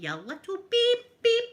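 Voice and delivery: high, slow, loud outraged cry; shocked loud retort; outraged yell. Retold or imitated. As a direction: yell it as she jumps back. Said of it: "I jumped back and I went".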